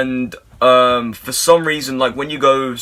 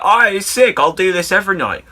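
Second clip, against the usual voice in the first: high, excited cheer; a chuffed little whoop at the cash; pleased to get fifty dollars, higher and brighter; delighted; 7 semitones higher than usual. Retold or imitated. Delighted retold reaction.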